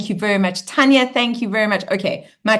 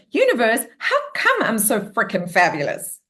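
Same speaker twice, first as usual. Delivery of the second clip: playful affirmation question. Shown as a demonstration.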